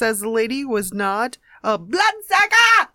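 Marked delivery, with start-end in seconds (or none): 1.8-2.9 stifled laugh. Real, not acted. Reading funny news word.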